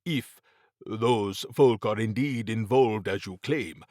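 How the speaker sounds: measured, formal warning; lightly voiced Mabati, foreboding. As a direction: lightly play a grave adviser explaining the threat.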